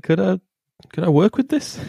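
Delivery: high, rising, teasing question; high mock question. Teasing a friend about the neighbours, a high sly question. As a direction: tease him in a high, sly voice. Friend mocks teller wanting to join.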